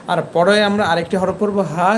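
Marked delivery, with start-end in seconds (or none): 1.7-1.9 হা from the very start of the throat; start-of-throat letter. Shown as a demonstration. Teacher previewing the other letter, throat-start হা. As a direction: open glottal h in হা. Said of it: "সেটা এই শুরু থেকে হবে".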